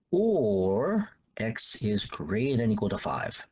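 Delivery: a long, drawn-out OR to open, then slow; stress on OR. Real, not acted. Teacher separating two answers for students, stress on OR. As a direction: lean on the first "or", stretching it out. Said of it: "I wanna stress the word or here".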